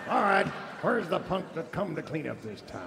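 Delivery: villain bursts in. Acted.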